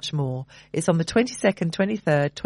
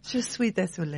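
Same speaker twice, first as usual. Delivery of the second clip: softer, hammed-up mock French accent; fake French accent; 6 dB quieter than usual. Co-host repeating his joke apology in a bad French accent. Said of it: "worst French accent ever".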